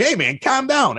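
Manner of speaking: retold agitated protest, pitched high; upset. Radio man retelling his words to a big angry stranger, mildly upset. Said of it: "sound like Joe Pesci when you get upset".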